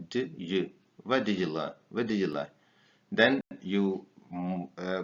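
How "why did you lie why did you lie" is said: Why did you lie with did you run together; linked d and y. Shown as a demonstration. Teacher drilling linked did you. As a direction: blend did you into one sound. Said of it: "you pronounce d, and y".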